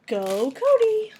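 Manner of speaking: high, slow cheer. Real, not acted. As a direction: cheer him on, high and drawn out. Cheering on a friend.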